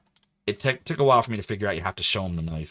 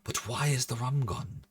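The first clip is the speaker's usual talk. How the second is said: higher, lightly attempted pirate impression; Johnny Depp; 4 semitones higher, 3 dB quieter than usual. Streamer attempting an accent he can't do well, Johnny Depp. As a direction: have a go at a tipsy movie pirate. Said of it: "If I do the Johnny Depp".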